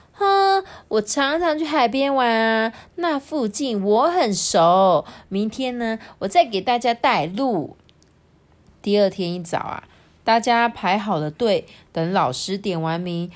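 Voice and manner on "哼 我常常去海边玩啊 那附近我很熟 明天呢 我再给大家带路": a touch of pride, showing off; proud boasting. Acted. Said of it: "菲菲就骄傲地说". (略带骄傲地说)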